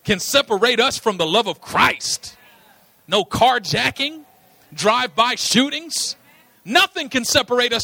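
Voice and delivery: a touch of gangster swagger; a rapper's voice. Retold or imitated. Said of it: "just going gangster".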